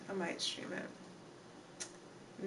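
breathy near-whisper, slow. Real, not acted. Streamer to chat, slowly whispering her plan. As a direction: let it fade into a slow whisper. Trailing off to herself.

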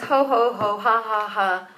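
put-on ho-ho-ha-ha laugh, spoken out; imitating a jolly laugh; mock jolly laughter. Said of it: "I come across as ... all fun and games".

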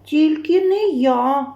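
вищий, протяжний мишачий голосок; відмовся, легенько попискуючи; писклява відмова. A narrator's reading. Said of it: "пищить круть". (мишеня злегка пищить, відмовляючись)

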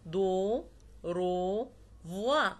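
دو، رو، فوا ending on open vowels; French دو and رو with no X heard; silent final X. Shown as a demonstration. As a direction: leave the last consonant of فوا unsounded. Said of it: "ما بنطقوش في نهاية الكلمة".

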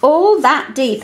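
slow, deliberate read-aloud. Shown as a demonstration. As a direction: read it slowly to the child. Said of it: "so I might do something like this".

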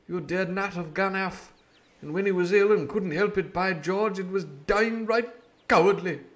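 a hint of a stern old doctor, rising to scolding; doctor, sadly reproachful. Doctor rebukes Jim for deserting, sad then scolding. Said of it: "said the doctor, sadly".

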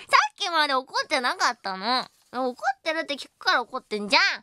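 put-on huffy comeback, rising to a loud finish; playing the touchy, clingy partner; mock annoyance. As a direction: argue back in pretend exasperation. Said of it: "メンヘラムーブがうますぎて".

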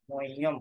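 Sanskrit হ shown in মহ্যম; মহ্যম with হ changed. Shown as a demonstration. Teacher explaining the হ, careful demonstration of মহ্যম. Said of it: "উচ্চারণ করেছি".

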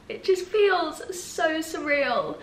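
slow, teary and breathy; crying happy tears about the new house; tearful. Real, not acted. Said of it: "I'm crying because I'm happy".

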